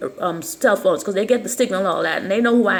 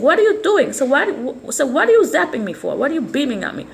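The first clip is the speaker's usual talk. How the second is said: sharp, raised voice at a stranger; retold street outburst; 4 semitones higher than usual. Woman confronting a stranger who zapped her, raised angry voice. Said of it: "carrying on in the street".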